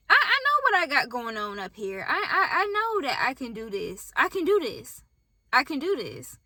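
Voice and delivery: choked-up affirmation, fighting back tears; tearful self pep talk. Real, not acted. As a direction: voice catching with emotion as she repeats it. Emotional self affirmation, crying heard.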